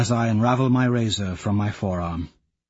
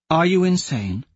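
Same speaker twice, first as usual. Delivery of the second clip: incredulous; 7 semitones higher than usual. A narrator's reading. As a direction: hit YOU, incredulous. She challenges him in confrontation.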